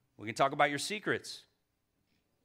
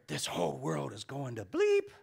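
grumbling stranger. Retold or imitated. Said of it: "Some dude said that to me".

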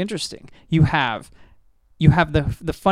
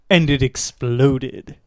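quoting Jeb; 2 semitones lower, much slower than usual. Retold or imitated. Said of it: "you remember the guy who's like".

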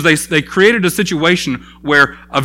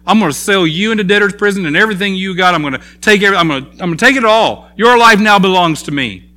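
harsh threat; 4 semitones higher, faster than usual. Acted. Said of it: "and said".

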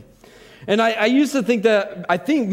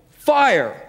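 louder, higher shout of fire with rising panic; panicked yell; 6 semitones higher, 3 dB louder than usual. Retold or imitated. Warning his family about the smoker fire, panicked yell. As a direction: yell it out, panic breaking through the calm. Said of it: "I yelled out with a little bit more panic".

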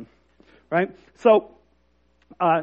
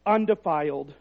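soft, hushed reading of the verse; quiet scripture reading; 4 semitones lower, 8 dB quieter than usual. Real, not acted. Pastor reading scripture to the congregation, hushed and soft. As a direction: read it softly, almost to yourself. Reads scripture passage softly.

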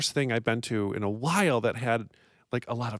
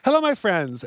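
letter reading voice; 6 semitones higher, 5 dB louder than usual. Acted.

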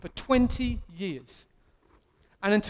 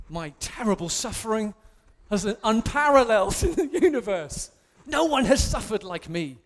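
mock self-pity; 4 dB louder than usual. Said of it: "I'm joking, by the way".

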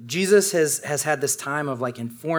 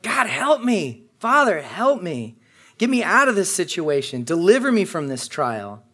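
pleading prayer voice; 4 semitones higher than usual. Retold or imitated. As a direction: beg God for help. Voicing a desperate prayer.

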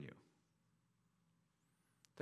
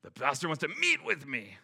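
surprised; 2 semitones higher than usual. Retold or imitated. Congregant alarmed by pastor's invite.

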